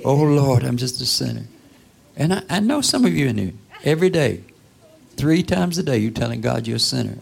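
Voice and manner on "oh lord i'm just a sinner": mock sinner's plea. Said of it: "That's the attitude".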